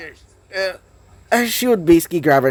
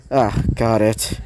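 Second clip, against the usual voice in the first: low, soft, unbothered mumble; nonchalant; 7 semitones lower, 4 dB quieter than usual. A narrator's reading. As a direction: drop low and shrug it off sleepily. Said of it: "he would say nonchalantly".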